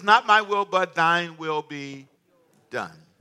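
loud, slow, weighty King James reading; slowed, solemn scripture voice; solemn proclamation. Acted. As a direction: declaim it like scripture. Quotes Jesus's prayer.

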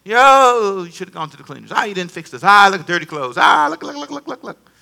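mocking the nagging inner critic; a light impression of a scolding inner voice. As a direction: nag at yourself, quick and picky. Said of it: "something will come".

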